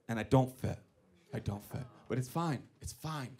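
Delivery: low, very soft, defeated aside; quiet resignation. Acted. Comic finding his car doesn't fit, quietly resigned. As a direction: let the voice sink as you accept it.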